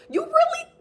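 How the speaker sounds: high breathy whisper, cut short; sudden whisper. Real, not acted. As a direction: drop to a secret whisper. Breaks off into a whisper.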